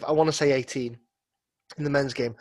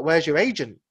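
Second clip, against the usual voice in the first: put-on Derby accent. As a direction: quote in a broad Derby accent. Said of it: "I would presume not in a Derby accent".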